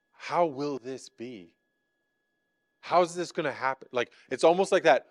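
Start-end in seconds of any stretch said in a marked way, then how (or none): 0.1-3.9 soft wondering question. Retold or imitated. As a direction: ask it gently, full of wonder. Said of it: "she asks and says".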